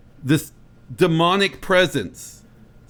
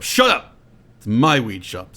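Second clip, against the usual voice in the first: mock angry yell; 3 semitones lower, slower than usual. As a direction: snap it like a spoiled tycoon. Bezos yells at shop clerk.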